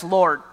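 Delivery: "Lord." low, firm and falling; stress on Lord. Shown as a demonstration. Preacher stressing "Lord." to the congregation, low and firm. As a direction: lean hard on "Lord.". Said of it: "Notice he says".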